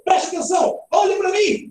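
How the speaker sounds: high exclamatory commands; exclamation. Shown as a demonstration. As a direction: call out for attention, pitched high. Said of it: "mudei a entonação da fala".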